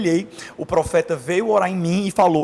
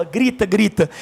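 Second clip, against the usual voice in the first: divine urging; 3 semitones higher, 3 dB louder, slower than usual. Retold or imitated. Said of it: "e a voz falava".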